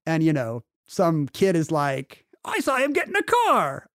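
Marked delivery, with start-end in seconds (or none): 2.4-3.9 high, jokey Cockney kid voice, put on for laughs; a kid tattling in a hammed-up Cockney accent. Storyteller voices a tattling kid in a mock Cockney accent. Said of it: "why the kid's Cockney in this story".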